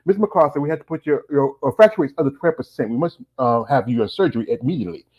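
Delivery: lightly imitated British doctor; British accent. British doctor urging surgery on patient, imitated British accent. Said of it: "when the British doctor came in".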